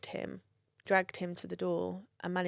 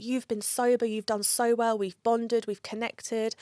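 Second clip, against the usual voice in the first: retold angry frustration; 4 semitones higher, 3 dB louder than usual. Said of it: "I was so angry".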